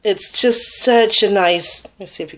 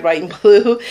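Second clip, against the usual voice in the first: laughing through it; 3 dB louder than usual. Real, not acted. Laughs mid-list.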